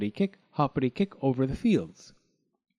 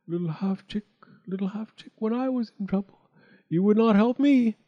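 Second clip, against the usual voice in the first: reproachful water; 7 semitones higher than usual. A narrator's reading. Water refusing the drowning chick, lightly voiced reproach.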